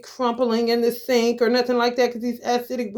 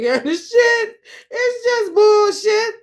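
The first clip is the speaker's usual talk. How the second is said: laughing; 10 semitones higher, 5 dB louder, slower than usual. Real, not acted. Laughing rant about small talk.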